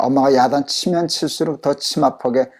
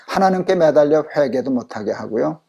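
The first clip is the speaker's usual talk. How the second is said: ordinary talk, nothing marked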